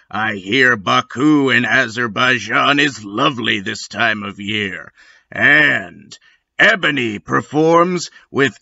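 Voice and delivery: gravelly trailer voice. Acted. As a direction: rasp it like a hyped trailer guy. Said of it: "let Gravelly Voice Guy get you guys hyped".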